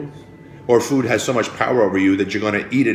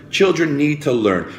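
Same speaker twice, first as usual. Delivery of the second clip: put-on "Children need to learn" repeated higher, with insistence; emphatic repeat; 6 semitones higher, 3 dB louder than usual. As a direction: lift "Children" higher to drive it home.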